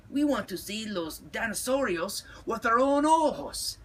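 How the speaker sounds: high-pitched little-dog demand; tiny insistent Chihuahua. A narrator's reading. Smallest Chihuahua demands to see dinosaurs, high insistent voice.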